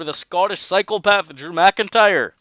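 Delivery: put-on a weak stab at a Scottish accent; mock Scottish accent, badly done; terrible Scottish accent. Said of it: "That was a terrible accent".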